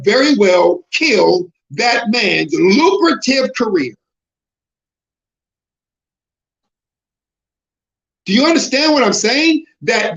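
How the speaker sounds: rising sermon voice that swells into shouts; preaching. Acted. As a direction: preach it at the congregation, building to full force. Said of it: "I don't even talk like this, but I'm talking like this".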